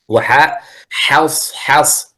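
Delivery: حص حص drawn out very slowly with a thin, light ح; thin ha demo. Shown as a demonstration. Teacher repeats the line to show thin حص. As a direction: sound حص حص carefully, never thickening the ح. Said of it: "لا تقول حص حص بالتفخيم".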